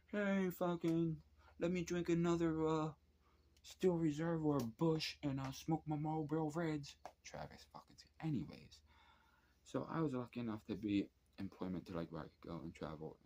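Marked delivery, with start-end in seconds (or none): 0.1-6.9 high, slow, loud hammed-up redneck drawl; redneck caricature. Imagining what a guy sharing a rapper's name sounds like, hammed-up redneck. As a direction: ham up a beer-drinking country boy. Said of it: "I think of a fucking fat white dude".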